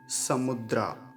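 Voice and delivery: slow, syllable by syllable, समुद्रा as sa-mu-dra; slow careful syllables. Shown as a demonstration. Teacher sounding out समुद्रा slowly for students. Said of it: "मैं इसे आसान कर देता हूँ".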